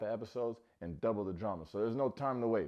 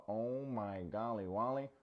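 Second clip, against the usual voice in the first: mock silly exclamation; slower than usual. Quoted catchphrase in put-on voice.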